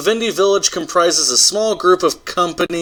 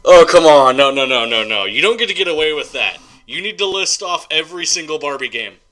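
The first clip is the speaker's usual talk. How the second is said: playful protest; 7 dB louder than usual. Real, not acted. Playful protest at skipping Barbie.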